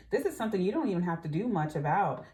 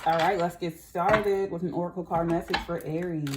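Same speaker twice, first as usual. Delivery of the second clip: tablet under tongue. Real, not acted. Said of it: "I'm dissolving a B twelve vitamin under my tongue right now".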